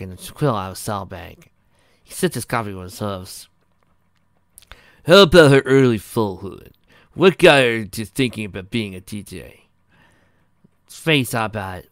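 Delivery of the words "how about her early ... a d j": lightly voiced interviewer, loud and projected; a hint of a loud character voice; inquisitive Pokey, interviewing. A narrator's reading. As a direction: ask it like a keen reporter, voice up.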